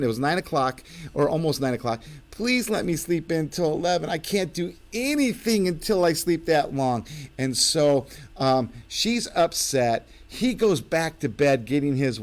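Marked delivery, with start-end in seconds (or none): 2.3-7.0 higher whiny begging; husband whining to wife for more sleep. Retold or imitated. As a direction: plead like a tired man wanting bed. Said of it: "he's all whining and whimpering".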